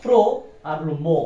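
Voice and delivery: "প্রো" and "মো" as two separate syllables; split into syllables. Shown as a demonstration. Teacher breaking promotion into parts, "প্রো" and "মো" said separately. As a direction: break it up: "প্রো", pause, then "মো". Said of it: "দুইটা syllable এখানে করা যায়".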